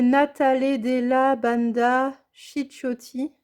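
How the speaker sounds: slow, careful Italian pronunciation; attempted Italian accent. Real, not acted. Vlogger reading an Italian paper brand to viewers, tentative Italian accent. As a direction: try the Italian name slowly in a French speaker's Italian accent. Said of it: "désolée pour mon accent".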